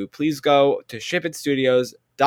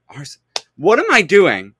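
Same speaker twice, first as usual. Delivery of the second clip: trying not to laugh; 3 dB louder than usual. Real, not acted. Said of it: "I'm losing it a little bit here".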